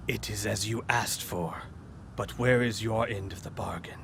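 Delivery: sickly creature striking a bargain; lightly rasped, sickly villain; sickly gravelly voice. Acted. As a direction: speak as a sickly, gravelly thing. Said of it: "very sickly, gravelly voice".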